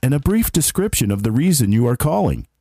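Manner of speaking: polished voicemail greeting voice; phone menu voice. Shown as a demonstration. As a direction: read it like a recorded phone message. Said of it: "I did some voice, uh, prompts for work".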